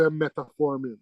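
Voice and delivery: "metformin" said as met-a-formin; mispronunciation demo. Shown as a demonstration. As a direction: slip an extra "uh" after met in "metformin". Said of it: "Y'all wanted to say metformin".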